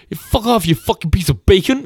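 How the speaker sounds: high hammed-up shouted abuse; cartoon road rage; mock angry insult. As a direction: fire the parting insult. Retold meme driver final insult.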